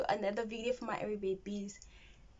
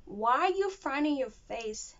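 American English. Shown as a demonstration. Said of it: "American say".

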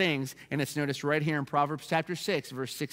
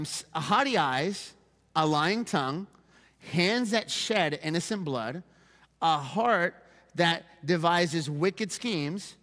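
deliberate reading with pauses between items; scripture reading. Acted. Pastor reads what the Lord detests, deliberate scripture reading. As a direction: read out a list, letting each item stand.

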